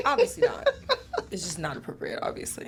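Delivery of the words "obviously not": high, loud laughing denial. Real, not acted. Woman scoffing at being asked to stroll, laughing. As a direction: blurt it out through real laughter.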